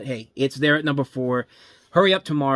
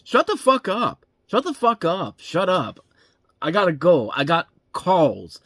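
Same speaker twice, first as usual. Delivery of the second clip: mocking overacted movie delivery; 5 semitones higher, 5 dB louder than usual. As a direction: overblown bad-actor outburst, pitched high then dropping. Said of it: "You wanna know how he says it".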